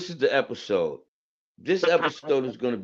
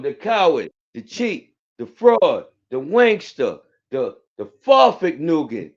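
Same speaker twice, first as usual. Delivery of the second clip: loud insult list; 7 dB louder, slower than usual. Acted.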